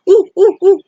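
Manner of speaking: high, loud eager ooh ooh ooh; desperate to be picked, hand up. Acted. Grover raising his hand eagerly.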